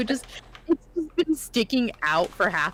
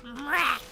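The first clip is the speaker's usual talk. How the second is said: imitated cat meow; 5 semitones higher than usual. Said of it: "that was his meow".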